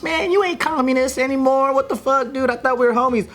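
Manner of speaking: lightly put-on Russian accent for a buddy quarrel; mock Russian accent. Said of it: "you went straight to the Russian accent".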